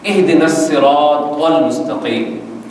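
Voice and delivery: slow recitation, heavy ص and ط in الصراط; correct tajweed. Shown as a demonstration. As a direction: draw out الصراط with thick, dark consonants. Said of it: "اب میں اس کا صحیح تلفظ پڑھنے لگا ہوں".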